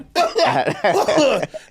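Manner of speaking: choking cough on dust; hacking, put-on cough; mimed coughing fit. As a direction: act out a dry coughing fit. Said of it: "like that. I'm like".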